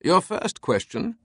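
slow, high British declaration; mock-heroic British voice; Herculean declaration. A narrator's reading. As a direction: declare it grandly in a British accent. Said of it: "Teabing declared, his tone Herculean".

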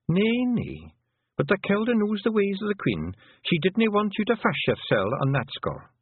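put-on a small proud Feegle girl, delivering her message; hint of a wee Scots pixie; pixie woman. Fion answers Tiffany.

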